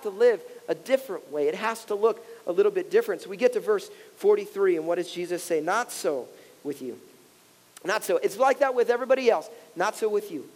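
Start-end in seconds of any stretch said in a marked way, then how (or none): 5.6-7.0 hushed and slow. Acted. Pastor reading Jesus' words to the church, hushed and slow. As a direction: drop low and soft, slowly. Quoting Jesus, verse forty-three.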